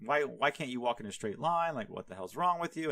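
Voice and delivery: mock exasperated rant at a donkey; half-earnest irritated scolding; retold outburst. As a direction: act out losing it, lightly. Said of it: "he loses his shit".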